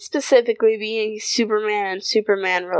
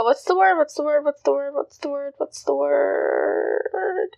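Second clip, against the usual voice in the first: fading self-mutter; 3 semitones higher than usual. Real, not acted. Searching for a word, fading.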